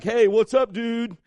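high, loud buddy hello; casual greeting. Acted. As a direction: call out like greeting a pal. Acts out modern casual greeting.

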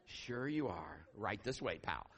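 slow, dry sarcastic put-on; skeptical sarcasm. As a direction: humor him without believing a word. Mimics disbelieving response.

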